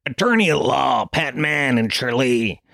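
hammed-up local lawyer advert shout; mock ad announcer. Comedian mimics a small-town lawyer's ad, mock shouted. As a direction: belt it out like a radio ad jingle.

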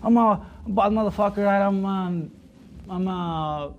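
high, loud, slow tough-guy mimicry; retold imitation of the opponent bragging, high and loud; mocking his boast.

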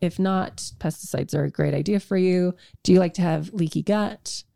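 deadpan sarcastic sales pitch; mock-recommend it with understated sarcasm; dry sarcasm in an everyday voice. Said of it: "I'm being sarcastic".

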